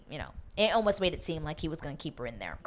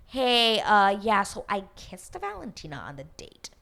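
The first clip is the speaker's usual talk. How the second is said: nervous confession; 2 semitones higher than usual. Retold or imitated. Damari telling her he kissed Valentina, mock nervous. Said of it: "because he is so nervous".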